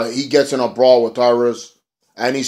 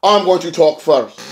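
higher, slower, whiny retelling of Spud; imitating Spud higher and slower; high mock Spud voice; 6 semitones higher, 5 dB louder, slower than usual. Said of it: "And Spud's like".

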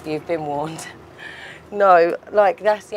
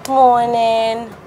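higher and louder, sing-song morning hello; Andre's morning greeting; 7 semitones higher, 6 dB louder than usual. Retold or imitated. Housemate imitating Andre's wake-up call to the group, a playful higher sing-song. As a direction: greet the villa like he does at sunrise. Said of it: "when Andre would be like".

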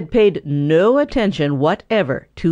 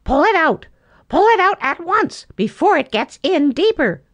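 higher, bossy command; 11 semitones higher than usual. A narrator's reading. Sammy Jay commanding Boxer, still half laughing. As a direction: order him to act at once. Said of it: "commanded Sammy Jay".

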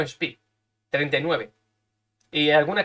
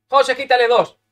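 calling out; 8 semitones higher, 8 dB louder than usual. Real, not acted. Calling out to the game.

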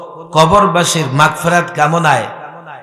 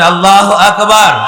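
full-voiced rallying call; louder takbir; 2 semitones higher, 4 dB louder than usual. Real, not acted. Preacher demanding a stronger response from the crowd, louder takbir. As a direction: push the chant out to rouse the crowd. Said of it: "আরো জোরে".

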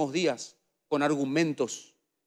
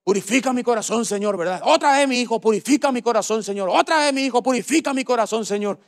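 high nasal grandma repeating a prayer; grandmother's nasal voice; 5 semitones higher than usual. Retold or imitated. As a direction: nag gently, over and over, in grandma's voice. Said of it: "mi abuela me decía".

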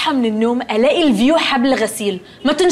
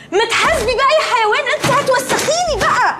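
mock disgust; 10 semitones higher than usual. Roommates bicker over wet laundry.

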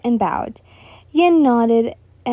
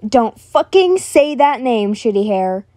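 angry; 4 dB louder, slower than usual. Acted. Bakugo angry at name.

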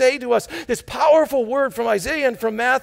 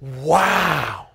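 wow; 7 semitones lower than usual. Shown as a demonstration. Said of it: "we're gonna say".

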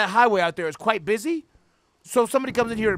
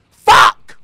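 loud, unvoiced yelp; sudden shout; 15 dB louder than usual. Real, not acted. Sudden startled yell at the screen, loud. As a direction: blurt it out in a burst.

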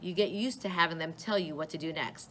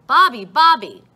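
loud frantic yell, much higher; 6 semitones higher, 16 dB louder than usual. A narrator's reading. Mother yelling for her invisible son, frantic. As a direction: scream his name across the room. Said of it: "and then yelling".

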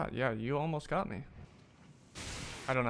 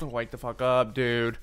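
angry yell; 9 dB louder, slower than usual. Real, not acted. Yelling at his own character.

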